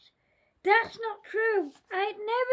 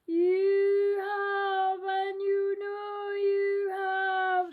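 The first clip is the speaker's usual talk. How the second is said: scary voice; 4 dB louder than usual. Acted. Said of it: "said the scary voice".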